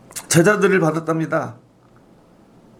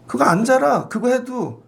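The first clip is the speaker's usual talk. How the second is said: stern Jesus; 5 semitones higher, slower than usual. Acted. 예수 음성으로 꾸짖음.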